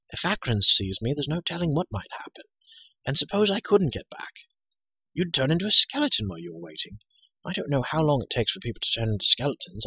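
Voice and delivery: lightly voiced chattering girl; a hint of brisk, matter-of-fact companion; Elinor. Girl reasoning with the trapped hero, lightly voiced and chatty.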